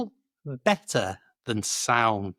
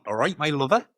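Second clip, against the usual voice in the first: Cornish greeting; faster than usual. Retold or imitated.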